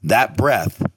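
measured coaching with long pauses; guided meditation. Shown as a demonstration. Host leading listeners through breathwork, measured guided meditation. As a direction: talk them through holding the breath.

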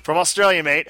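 lightly put-on Australian accent. Host introducing a listener's letter, light mock Australian accent. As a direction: try a mock Australian greeting. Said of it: "I won't do the accent".

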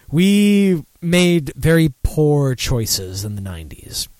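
slow, whispered confession; mock whisper. Host teasing his co-host Dennis, slow mock-guilty whisper. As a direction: hush it like a guilty secret.

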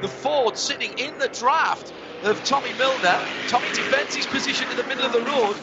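live race play-by-play; motorsport commentator. Acted. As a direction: call the last lap as it unfolds. Live play-by-play of final lap.

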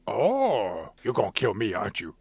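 mock dawning dread. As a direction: let the fear sink in quietly.

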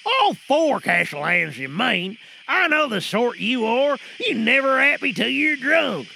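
a lightly voiced old sea dog plotting; muttering pirate, half menace; lightly played pirate in a radio drama; pirate sailor. Actors perform pirate scene.

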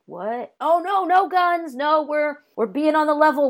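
high, hasty mock denial; mock protesting. Retold nervous denial of guns.

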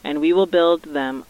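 rally the workers with conviction; rousing speech. Retold or imitated.

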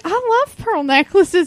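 high, drawn-out imitation of her; retold gushing woman. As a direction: mimic her slowly in a high voice. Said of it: "she's like".

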